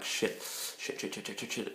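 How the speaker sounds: whispered panicked cursing; guy panicking at the club, whispered under his breath. Retold or imitated. Panicked inner voice.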